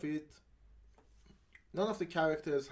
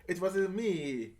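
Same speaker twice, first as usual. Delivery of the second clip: mock Italian-British accent through laughter; laughing mock accent; 3 semitones higher than usual. Mocking the actor's accent while laughing. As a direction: giggle through a posh Italian gag. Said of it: "since he's British".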